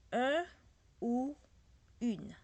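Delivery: "Un ou une" said loud and high, each word apart; French un ou une. Shown as a demonstration. Teacher drilling French articles for students. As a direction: call out "Un ou une" clearly. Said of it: "Ou mean or".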